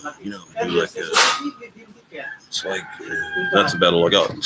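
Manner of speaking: high, put-on rock-star voice, tipsy drawl; impression of a rock singer. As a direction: impersonate a boozy rock singer mumbling. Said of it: "he just came in and he was like".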